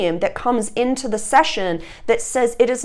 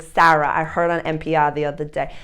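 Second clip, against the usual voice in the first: put-on Boston accent; 5 semitones lower than usual. Restaurant gal relaying radio news, in a Boston accent. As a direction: imitate a friend's thick Boston accent. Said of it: "such a thick Boston accent".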